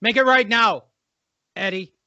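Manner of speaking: agitated, roughly attempted English accent. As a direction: argue in a loose mock-English accent. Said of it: "I don't do an English accent".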